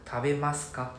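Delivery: Tabemasu ka falling at the end; Japanese pronunciation. Shown as a demonstration. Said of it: "next one".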